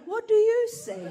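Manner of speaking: high, loud challenge at the mirror; loud, laughing demand; mock demanding shout. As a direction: shout it up at her, half laughing. Confronting her at mirror.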